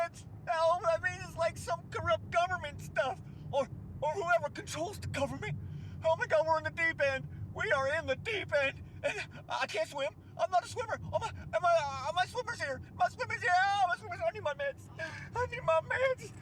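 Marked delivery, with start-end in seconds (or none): 6.0-16.3 mock panic. Hammed panic, drowning joke.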